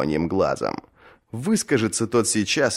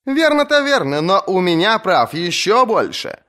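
much higher, bright quick comeback; cheeky retort; 11 semitones higher than usual. Acted. Asha answers the shouting rower, high cheeky retort. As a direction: turn his shout against him.

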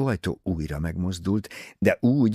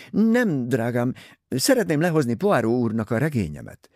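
higher, louder gushing society lady; Mrs Otterborn's voice; 6 semitones higher, 3 dB louder than usual. Acted. Vain novelist pressing her book on Poirot, high and gushing.

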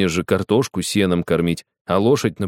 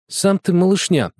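put-on sudden high snapping girl; blurted retort; 11 semitones higher than usual. A narrator's reading. Girl blurting back at the cocky boy, sudden. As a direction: fire it back at once. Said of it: "вдруг выпалила Светлана".

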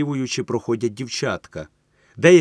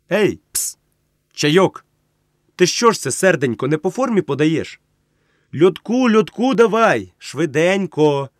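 loud, high call for the waiter; a tipsy man hollering at the waiter; 6 semitones higher, 5 dB louder than usual. Acted. A tipsy man hollers for the waiter, loud and high. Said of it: "Йому приємно погукувати".

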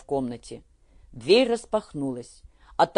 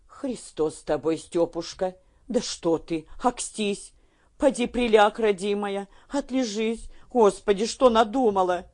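rising, higher alarmed pleading; a frightened mother begging her daughter to lie down; mother's alarm climbing higher; 5 semitones higher than usual. A narrator's reading.

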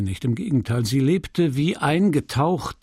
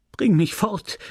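calling out; 7 semitones higher than usual. Acted. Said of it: "rief sie".

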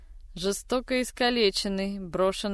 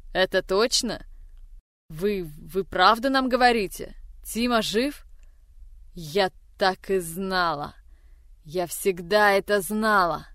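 very agitated. Acted. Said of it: "Августа была сильно взволнована".

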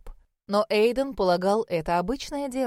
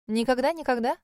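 bright, higher teasing question; lively; 4 semitones higher than usual. Acted. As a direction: tease him back playfully. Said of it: "живо поинтересовалась Малинка".

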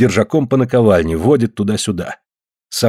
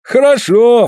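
high, loud matching praise; echoed approval; 12 semitones higher, 5 dB louder, slower than usual. A narrator's reading. Afanasy echoes Suль's praise, matching high approval. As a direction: echo the praise in the same raised tone. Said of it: "в тон ему вторит и Афанасий".

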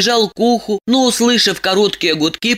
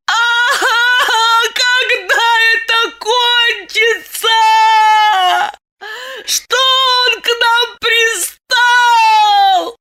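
much higher, loud, slow wailing lament; 3 dB louder, much slower than usual. Acted. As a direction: wail it like a peasant woman keening. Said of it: "По бабье завыла Диана".

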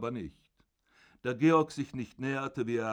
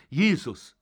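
much higher, loud shocked cry; startled cry; 6 semitones higher, 10 dB louder than usual. Acted. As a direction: cry out in fright. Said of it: "rief sie". (erschrockener Aufschrei, hoch und laut)

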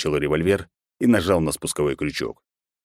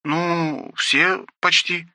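high maid's voice, slow and sighing; the maid sighing bad news over the radio; sighed reply; 12 semitones higher, much slower than usual. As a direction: let it out with a reluctant sigh. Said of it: "вздохнула горничная".

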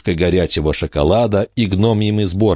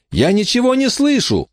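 shouting over wind. A narrator's reading. Emma yelling over storm.

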